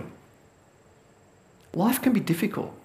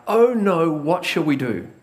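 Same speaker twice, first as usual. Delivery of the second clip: mild freaking out. Retold or imitated. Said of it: "the servant is freaking out".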